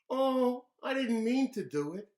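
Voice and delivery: put-on childish wail of innocence; high kid excuse. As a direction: sound caught and surprised. David after knocking lamp.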